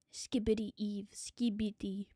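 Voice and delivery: breathy whispered name, low and soft. Pretend. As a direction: whisper it like a secret.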